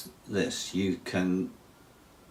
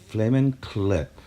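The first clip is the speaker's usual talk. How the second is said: louder and higher, fed up with the music; annoyed outburst; 5 semitones higher, 4 dB louder than usual. Real, not acted. Teacher cutting off his own intro music, annoyed. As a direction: snap at the irritating tune.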